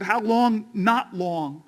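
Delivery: a touch of preacher cadence, call and answer; rolling sermon rhythm on each refrain; quoting King, preaching. Retold or imitated. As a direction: let the questions ring and the answers land. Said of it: "He said".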